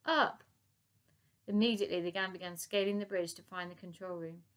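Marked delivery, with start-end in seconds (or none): 0.0-0.4 very high loud shouts. Acted. Elsie urging the gang to raise the bridge, loud shouts. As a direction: yell it up to them.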